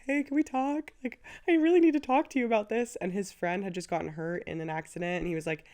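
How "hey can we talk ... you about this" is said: high, fast, pressing plea; mock urgent ask to talk; urgent self-quote. Calling her partner to ask to talk, urgent and high. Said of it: "be like".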